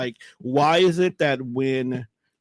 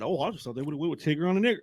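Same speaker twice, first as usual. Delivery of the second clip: offhand; 6 dB quieter, much faster than usual. Retold or imitated. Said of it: "he says it like that".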